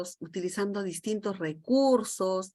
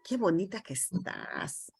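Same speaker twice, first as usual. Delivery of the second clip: tender compliment; 2 semitones lower, 7 dB quieter than usual. Shown as a demonstration. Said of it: "yo incluso te puedo decir".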